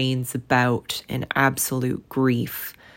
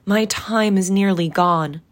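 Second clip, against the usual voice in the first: unearthly voice; 6 semitones higher, 5 dB louder than usual. A narrator's reading. Ghost's urgent warning.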